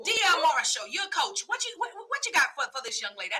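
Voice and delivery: calling out. Real, not acted. Calling out to coach.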